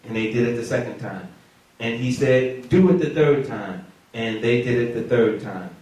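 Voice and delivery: low, measured Bible reading; scripture reading. Real, not acted. Preacher reading Elijah's altar story to the church, measured scripture reading. Reads scripture aloud to congregation.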